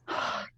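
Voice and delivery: soft exhausted puff of breath; panting sigh. A narrator's reading. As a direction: let out a quiet winded sigh. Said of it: "He kept panting".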